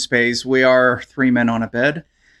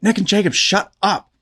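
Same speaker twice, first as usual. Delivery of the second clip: stage whisper; 4 semitones higher than usual. Retold or imitated. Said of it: "But it's like".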